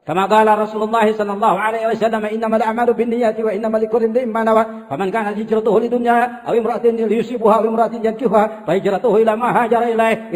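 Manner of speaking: a light touch of a habib reciting hadith in Arabic; habaib recitation voice. Shown as a demonstration. Preacher imitating how habaib recite a hadith, lightly voiced. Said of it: "Itu habaib suaranya begitu".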